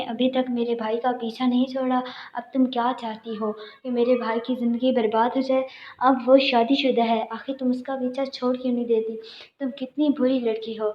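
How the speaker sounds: lightly acted sister tearing into the other woman; scolding. (بہن کی ہلکی سی غصے بھری ڈانٹ)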